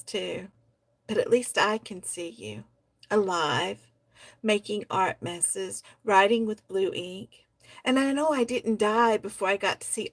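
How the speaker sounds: put-on reading a poem aloud in a child's voice, gently. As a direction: read it like a child's letter to his grown-up self.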